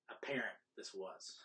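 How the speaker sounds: slow unvoiced whisper. Real, not acted. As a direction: whisper it slowly.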